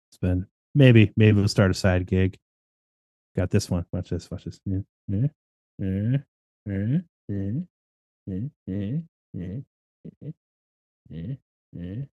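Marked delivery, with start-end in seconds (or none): 3.4-12.0 mock magician patter. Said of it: "brushing up on my magic tricks".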